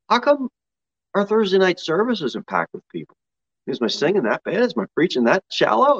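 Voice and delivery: mild retold grumble to God; lightly acted whiny questioning; complaining. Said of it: "you start complaining".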